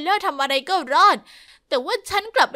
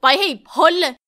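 louder yell to go away; shouting back; 6 dB louder than usual. Acted. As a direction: shout her off from behind the door. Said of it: "เธอตะโกนกลับมา".

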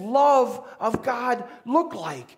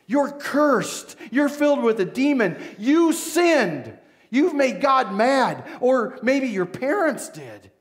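accusing crowd; 4 dB louder than usual. Acted. Crowd condemning the boy.

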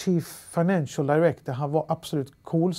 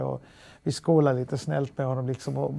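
ordinary delivery

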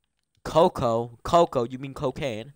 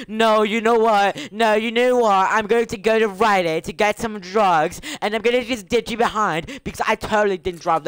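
mocking imitation; 4 semitones higher than usual. Streamer imitating friends who ditched them, mocking. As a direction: mimic them with exaggerated sass.

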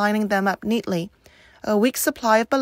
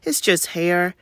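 fake cheerful; 3 semitones lower, slower than usual. A narrator's reading. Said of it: "with fake cheerfulness".

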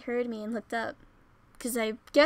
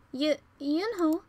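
trembling; 4 semitones higher, 4 dB louder, slower than usual. Acted. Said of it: "I was trembling while walking".

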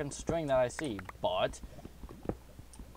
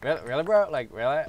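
put-on higher, louder Valley Girl voice; Valley Girl accent; 4 semitones higher, 8 dB louder, faster than usual. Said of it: "I cannot get out of that Valley Girl accent".

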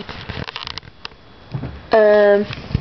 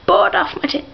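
whisper; 5 semitones higher than usual. Pretend. Cheeky aside whispered.

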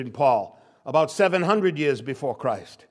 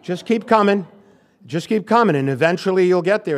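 laughing; 3 semitones higher, 6 dB louder than usual. Retold or imitated. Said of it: "Karen says that all the time".

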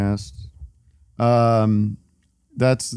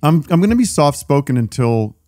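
talking while chewing gum; words around a wad of gum; 3 semitones lower than usual. Real, not acted. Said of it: "should I stop chewing gum?".

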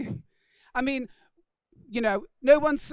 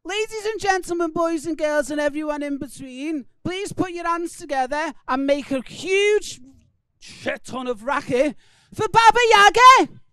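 monster truck ad. Acted. Introduces first act.

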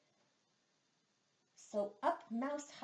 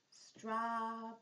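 strawberries said slowly, each sound clear; teacher sounding it out; slower than usual. Shown as a demonstration. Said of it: "Let's try that slow".

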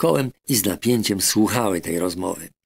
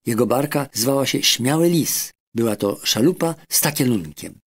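put-on high young boy's voice, proud; a boy bragging about his strong uncle, higher; eager boy; 4 semitones higher than usual. Boy describing his red-haired sailor uncle to the doctor, high and proud.

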